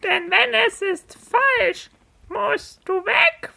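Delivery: squawking parrot guardian; shrill bird squawk rising at the end. Acted. Parrot guardian quizzing the team.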